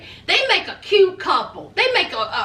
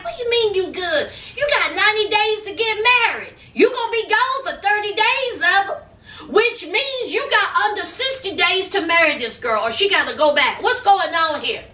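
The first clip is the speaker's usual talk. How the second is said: higher-pitched, mock indignant questioning; challenging mom; 4 semitones higher than usual. Mom challenging son over marriage deadline, mock indignant. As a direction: lightly imitate a mother pressing her son.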